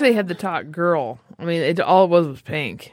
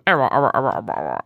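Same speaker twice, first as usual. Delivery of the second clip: imitating glitching audio; 10 semitones lower than usual. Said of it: "It kept going".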